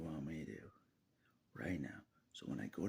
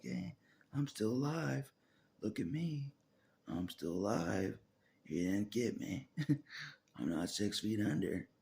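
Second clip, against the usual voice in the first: louder, slow, gloating taunt; 4 semitones higher, 5 dB louder, slower than usual. Retold or imitated. To the enemy, a loud slow gloating taunt. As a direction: rub it in the enemy's face. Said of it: "I'm taunting the enemy like".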